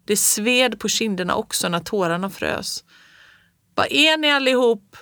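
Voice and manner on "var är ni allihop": high loud frantic question; screaming. A narrator's reading. Child screams for her family in the storm, loud high. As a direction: cry out for the family. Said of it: "skrek jag".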